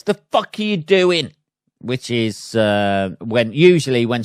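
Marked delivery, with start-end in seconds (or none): 0.0-1.3 high, indignant snap; mock road rage. Shown as a demonstration. Driver at the side window, high indignant snap. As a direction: bark it at the driver who cut in. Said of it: "the left side window is".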